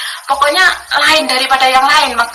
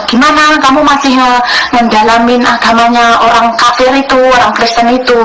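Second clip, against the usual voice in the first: scornful husband; 2 semitones higher, 5 dB louder than usual. Retold or imitated. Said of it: "dia bilang gitu".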